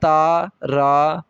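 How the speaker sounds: ता and रा drawn out very slowly, one at a time; slow syllables. Shown as a demonstration. Teacher to learners, spelling out ता, रा very slowly. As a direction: stretch ता, रा out syllable by syllable. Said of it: "हा के अंदर भी हे की भी आवाज़".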